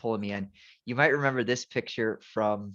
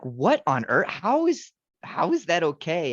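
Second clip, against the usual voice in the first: mock shocked, rising high and louder; retold disbelief; 6 semitones higher, 5 dB louder than usual. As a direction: replay the outrage of first hearing it. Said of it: "I was like".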